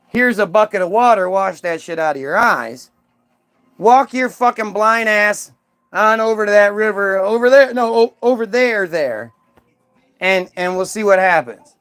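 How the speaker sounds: rude Jesus. Retold or imitated. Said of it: "Not like".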